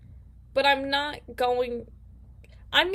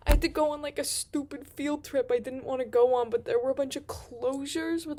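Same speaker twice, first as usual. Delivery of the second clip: too much caffeine; 3 semitones higher than usual. Real, not acted. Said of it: "I am so wired right now".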